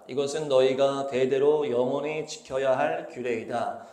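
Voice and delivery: measured, slow reading aloud; scripture reading. A narrator's reading. Preacher reading God's command to the congregation, slow scripture reading. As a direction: read the verse out slowly and evenly.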